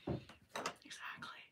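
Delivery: slow, drawn-out whispered Exactly. Real, not acted. Agreeing with a chat comment, in a whisper. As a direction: breathe the word out slowly.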